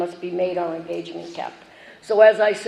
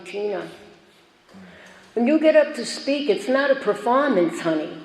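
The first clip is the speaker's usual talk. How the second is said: put-on mild New York accent; 3 semitones higher than usual. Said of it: "she was from New York, and she had that accent".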